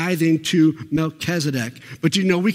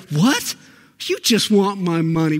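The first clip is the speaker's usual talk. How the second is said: mock indignant barber customer. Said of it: "get a haircut and be like".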